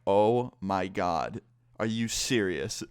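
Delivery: slow, drawn-out retold exasperation; re-enacted weary incredulity, very slow; exasperated disbelief. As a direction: stretch each word in disbelief. Spots her car stalking him again.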